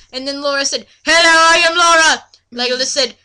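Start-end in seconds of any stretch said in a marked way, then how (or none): 1.0-2.2 high, loud, fast greeting; shy girl voice. Acted. Laura introducing herself, high and quick. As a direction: rush the hello out up high. Reading a girl's line.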